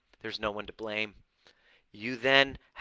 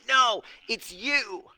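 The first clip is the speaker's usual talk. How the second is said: loud, high, drawn-out mock accusation; accusing retort; 10 semitones higher, 5 dB louder, much slower than usual. Coach mimics a partner shifting blame, loud and accusing. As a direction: throw the blame back, slowly and loudly.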